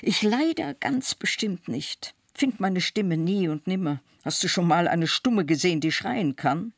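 high, insistent denial; crying out in protest. A narrator's reading. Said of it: "schrie ich".

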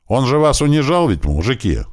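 loud and high, rallying the workers; calling out to the crowd. A narrator's reading. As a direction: shout it to the men around. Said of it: "крикнул я собравшимся". (громко, обращаясь к толпе)

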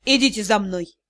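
low, weary, with a heavy sigh; heavy-hearted. A narrator's reading. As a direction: say it like a tired, burdened man. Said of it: "с тяжёлым вздохом произнёс". (устало, с тяжёлым вздохом)

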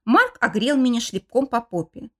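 usual speaking voice

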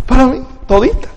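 high, eager disbelief; a giddy man who can't believe his luck; amazed Adam. Acted. Adam asking God if Eve is his, high and eager.

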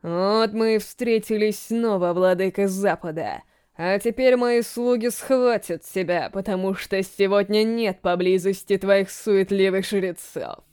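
slow voice as if from afar; dreamy distant undead voice. Acted. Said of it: "словно издалека, послышался голос".

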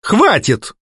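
snapping. A narrator's reading. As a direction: stop him dead. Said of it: "рявкнула я".

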